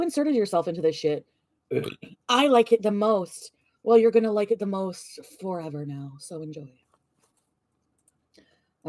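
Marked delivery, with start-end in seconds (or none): 2.3-3.5 slow, drawn-out mimicry of his words; mocking quote. 3.8-6.7 bitter comeback at normal speed; sarcastic retort. Real, not acted.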